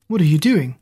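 stammering in shock; stuttering. Acted. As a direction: trip over the words. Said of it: "Zack stuttered".

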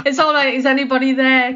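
hushed spooky medium calling spirits; Doris Stokes medium voice. Retold or imitated. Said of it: "I always sound like Doris Stokes when I talk about".

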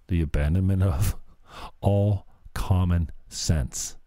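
mock labored delivery. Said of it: "This is really labored".

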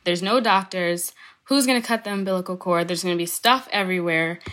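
fast, overwhelmed run of worries; retold flustered rant. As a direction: rattle off the worries quickly. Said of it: "I was very overwhelmed".

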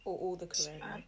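dry whispered quip; breathy throwaway whisper; whispered aside. Real, not acted. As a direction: whisper it under your breath. Whispered joke.

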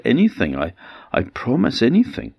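high, quick stammering eagerness; eager promise. Acted. Husband rushes to promise Niamh anything, high and quick. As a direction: rush out the promise.

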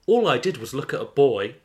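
high, sharp accusing friend; Gemma's voice. Acted. Voicing Gemma in the story.

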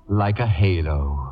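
hammed-up sob of false admiration; mock tearful. Flattering the actress in the case, mock tearful. Sherry feigns being moved by Lorraine.

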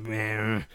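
put-on lazy baby cry. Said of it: "she's not speechless".

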